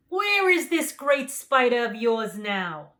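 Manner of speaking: loud, slow lion; the lion asking calmly; lion's voice. A narrator's reading. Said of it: "asked the lion".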